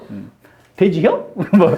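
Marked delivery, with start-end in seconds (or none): 0.8-1.3 short Chungcheong food question; Chungcheong dialect. Shown as a demonstration. Teacher giving more dialect examples, short Chungcheong question. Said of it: "충청도 말 굉장히 빨라요".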